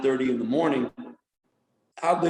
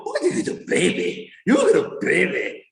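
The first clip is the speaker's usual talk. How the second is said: put-on baby talk; 4 semitones higher than usual. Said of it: "I go".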